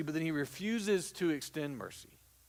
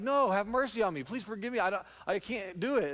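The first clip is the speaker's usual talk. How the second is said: begging debtor; 5 semitones higher than usual. Acted. Debtor begs servant in parable.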